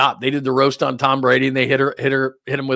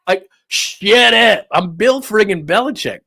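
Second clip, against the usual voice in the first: annoyed Belichick; 7 semitones higher, 5 dB louder, slower than usual. Retold or imitated. Voicing Belichick's annoyed reply.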